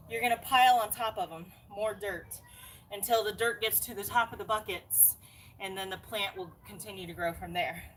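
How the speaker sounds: talking while out of breath; winded from digging, out of breath. Real, not acted. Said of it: "sorry, I'm out of breath".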